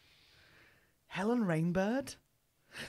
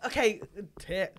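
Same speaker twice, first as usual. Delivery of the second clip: loud mock Texan announcer; a hammed-up Texas welcome; Texan accent; 4 dB louder than usual.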